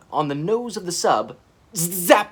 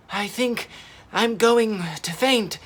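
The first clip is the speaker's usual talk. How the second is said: croaking; 7 semitones higher than usual. A narrator's reading. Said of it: "croaked Gypsy".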